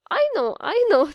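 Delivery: calming. Acted. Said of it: "in a calming voice".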